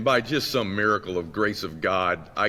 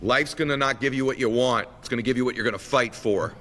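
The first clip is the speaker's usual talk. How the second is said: higher-pitched, lightly voiced dad; proud dad; 4 semitones higher than usual. Dad hugging his son after the fight, lightly voiced lesson. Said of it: "Gives me a big hug".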